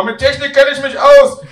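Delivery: high, loud boast; shouting granny. Acted. Grandmother insisting she understands phones, high shout. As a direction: holler it far above your own pitch. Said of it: "schreit Oma".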